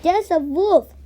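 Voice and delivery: panicked shout; shout for help. Acted. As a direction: burst into the village yelling. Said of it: "he shouted".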